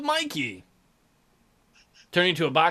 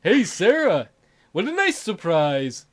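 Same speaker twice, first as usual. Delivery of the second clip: smiling voice; 3 dB louder than usual. Acted. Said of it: "You heard a smile in his voice".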